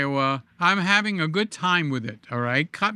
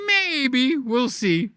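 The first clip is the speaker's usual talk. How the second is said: skeptical maybe; 5 semitones higher, slower than usual. Real, not acted. Doubting Jeff's promise.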